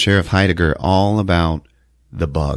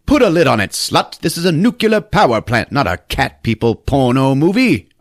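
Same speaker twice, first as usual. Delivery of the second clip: higher, louder hammed-up scolding boss; mock angry boss; 7 semitones higher, 5 dB louder than usual. Withers scolding Dottie, a hammed-up angry boss. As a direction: bark it like an outraged boss. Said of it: "And he's like".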